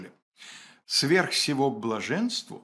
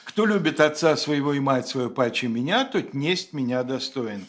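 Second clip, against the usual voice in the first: диктует; 3 dB louder than usual. Acted. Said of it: "кавычки открываются".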